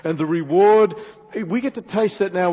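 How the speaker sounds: ordinary delivery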